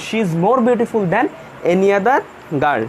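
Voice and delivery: very slow, word by word, with pauses; slow dictation. Shown as a demonstration. Teacher dictating the answer sentence to the class, very slowly. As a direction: dictate it so students can write it down. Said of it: "কোনো প্রশ্ন আছে কিনা".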